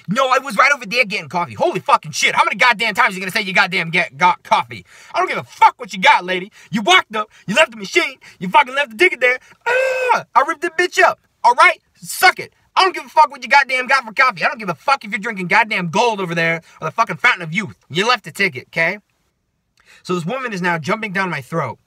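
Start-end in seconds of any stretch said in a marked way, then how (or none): 0.1-1.5 louder, higher hammed-up New Yorker; mock her New York protest at full volume; New Yorker accent. Woman arguing back over her ticket, mocking New York accent. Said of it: "like, New Yorker accent". 1.5-19.0 loud, high comic outburst; exasperated rant. Pretend. Worker venting at coffee woman in imagination, ranting loudly.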